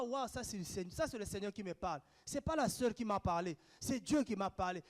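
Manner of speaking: low, softened voice, as if thinking aloud; hushed inner realization. Acted. Believer telling themself that it was God speaking, hushed realization. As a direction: drop low and quiet for a private thought.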